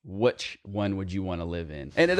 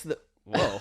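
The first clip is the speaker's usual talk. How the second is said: voice cracking; 4 semitones higher than usual. Real, not acted. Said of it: "That was awesome".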